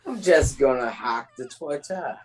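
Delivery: put-on British voice; attempted British accent. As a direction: have a shaky go at a British accent. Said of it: "was that a British accent?".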